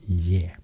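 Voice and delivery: ye pronounced "yeh" with a clear y glide; y before e. Shown as a demonstration. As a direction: demonstrate ye, y leading into e. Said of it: "with the y before".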